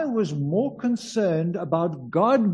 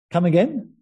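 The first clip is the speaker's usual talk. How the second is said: South African; 4 dB louder than usual. Retold or imitated. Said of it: "that's a South African version".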